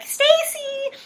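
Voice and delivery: high, ringing call across the rink. Retold or imitated. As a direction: shout the name to a friend far off. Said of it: "we'd be like".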